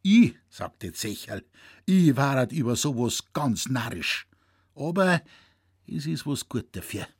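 put-on a grumbling old poacher lamenting his back; old Zecherl grumbling to young Franz; old Bavarian hunter.

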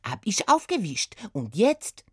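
hohe Putzfrau mit französischem Akzent; erklär es knapp mit französischem Akzent; französischer Akzent. Acted. (Putzfrau erklärt Oda das Glas, französischer Akzent)

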